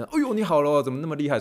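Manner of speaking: hammed-up startle for a recovered patient; mock startled cheer. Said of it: "我就有点吓一大跳".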